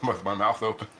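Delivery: laughing. Real, not acted.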